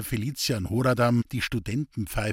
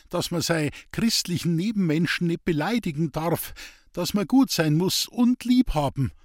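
higher, eager dialect voice, defensive; earnest simple woodcutter; 5 semitones higher than usual. Acted. Hans-Peter defending his street preaching to the priest, higher and earnest. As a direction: plead your case like a rough honest man.

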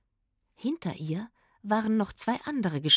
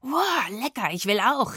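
loud, raised-pitch eager exclamation; eager call; 4 semitones higher, 4 dB louder than usual. A narrator's reading. Itzig reaches the orchard and wants cherries too, eager call. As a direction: call out wanting your share. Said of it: "rief Itzig".

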